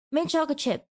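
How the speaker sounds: "Mint chocolate chip" rolling off the tongue; easy, flowing. Shown as a demonstration. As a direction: let "Mint chocolate chip" flow out as one unit. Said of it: "It rolls off of our tongue".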